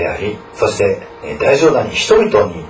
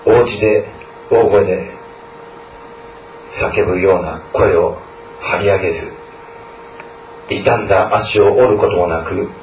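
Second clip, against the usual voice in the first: closing prayer. Real, not acted. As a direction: pray over the students, unhurried and devout. Pastor leads closing prayer.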